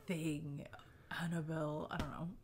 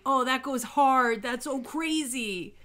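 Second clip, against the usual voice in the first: higher, louder hyped exclamation; impressed reaction; 5 semitones higher, 4 dB louder, slower than usual. Pretend. Imagining hearing the better story, loud impressed reaction. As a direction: gush it, stretching the last words. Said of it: "I probably would have been like".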